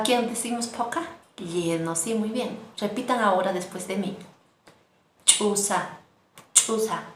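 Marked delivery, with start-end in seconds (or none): 5.2-7.0 chusa with a strong explosive ch. Shown as a demonstration. Teacher showing the students an explosive ch in chusa. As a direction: burst out the ch of chusa. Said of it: "Así como explotando".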